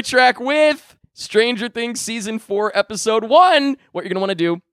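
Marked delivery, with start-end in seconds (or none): 3.9-4.6 choking. Real, not acted. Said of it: "excuse me, I'm choking".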